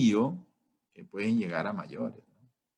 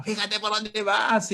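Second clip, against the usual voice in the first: high, slowed angry yell at a careless driver; furious driver; 10 semitones higher, 3 dB louder than usual. Retold or imitated. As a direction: bark it like a furious driver cut off in traffic. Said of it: "responde esa persona es furiosa".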